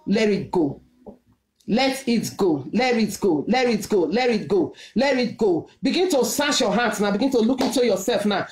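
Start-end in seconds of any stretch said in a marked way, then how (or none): 0.1-5.7 low urging. Real, not acted. Preacher urging congregation.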